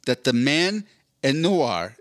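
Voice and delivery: put-on slowly mixing French and English in a French accent; a half-French sentence; light French accent; mixed French. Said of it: "En anglais".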